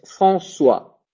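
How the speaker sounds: François with ç said as s; François avec un S; modelled word. Shown as a demonstration. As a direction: say François cleanly, s sound. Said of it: "je le prononce comme un S".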